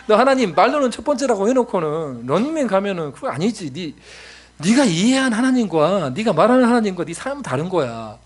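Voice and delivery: scolding father. Retold or imitated. Father scolds young daughter in story.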